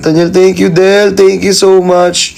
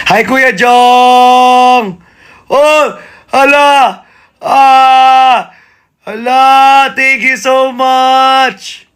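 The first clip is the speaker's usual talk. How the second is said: excited greeting; 6 semitones higher, much slower than usual. Real, not acted. Welcoming a viewer who joined the live, excited. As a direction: greet him with delight.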